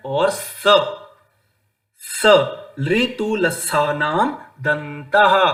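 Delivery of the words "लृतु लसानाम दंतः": लृतु लसानाम दंतः drawn out slower; slow sutra recap. Shown as a demonstration. Teacher repeats sutra as summary. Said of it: "तो लृ तु".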